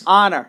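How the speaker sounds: "honor" starting straight on the vowel; silent H. Shown as a demonstration. Co-host showing the variants, H dropped. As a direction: say "honor" with no H at all. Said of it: "some people say".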